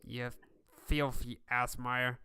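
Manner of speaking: slow sneering whisper of a sweating dwarf; defiant dwarf leader. Acted. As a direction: hiss it out slowly in contempt. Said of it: "looking at you and says".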